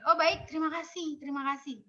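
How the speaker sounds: ucapan terima kasih ringan, melembut di akhir; menerima dengan sabar. Shown as a demonstration. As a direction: terima pendapat dengan ramah, turunkan suara. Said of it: "Kalau nanti". (tanggapan sabar, mengalah)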